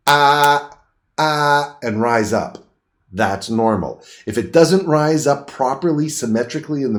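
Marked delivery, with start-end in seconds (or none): 0.1-1.8 two held "ah" sounds; open-mouthed "ah". Shown as a demonstration. Instructor showing the uvula rising, open-mouthed "ah". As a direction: demonstrate "ah" for a throat check. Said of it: "the uvula will go".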